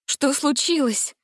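startled, slow frightened question. A narrator's reading. Gretel, waking chained, asks frightened. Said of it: "испуганно спросила Гретель".

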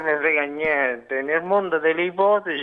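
a little thick-tongued; slurred voice. Real, not acted. Caller shrugging off the host's question, slurred voice. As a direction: let the words run slightly mushy. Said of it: "Ma perché c'ha questa voce?".

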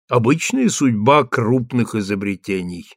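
usual speaking voice

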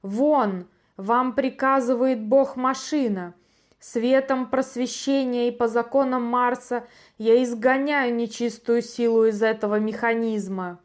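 loud enraged command; furious shout. Acted. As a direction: roar the exorcism in fury. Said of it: "в ярости заорал Антигон".

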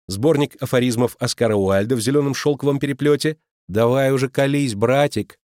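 high, loud sing-song teasing; mocking tease. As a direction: needle her brother with mock sweetness. Letty teasing brother. (насмешливо дразнит брата, высоко)

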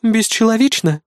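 gloating mock echo, a smirk; gloating sneer. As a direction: sneer the word back, gloating. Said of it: "злорадно усмехнулась девочка".

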